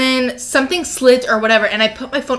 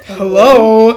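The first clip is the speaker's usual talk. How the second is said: laughing hello; 7 dB louder than usual. Retold or imitated. Retelling startled man's voice.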